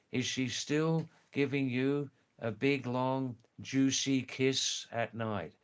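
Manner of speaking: "juicy kiss at night" in careful, separated words; real English. Shown as a demonstration. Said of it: "this means in real English".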